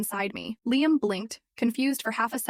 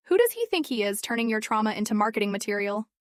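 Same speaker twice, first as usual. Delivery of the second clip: put-on Brooklyn accent. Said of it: "her Brooklyn accent thicker than usual".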